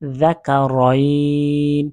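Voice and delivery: যাকারাইন with the ending dropped and the vowel before the ন held long; stopping on the word. Shown as a demonstration. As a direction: stop on যাকারাইন, drawing out its last syllable slowly. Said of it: "এখানে যদি ওয়াকফ করি".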